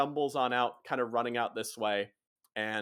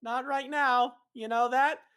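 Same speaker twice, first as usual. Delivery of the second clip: high-pitched, halting objection; hesitant Hap; 11 semitones higher than usual. Acted. Hap reminding Hugh not to kill anyone, hesitant. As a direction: timidly raise a doubt, high voice.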